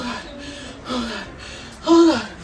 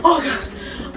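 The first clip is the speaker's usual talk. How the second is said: usual speaking voice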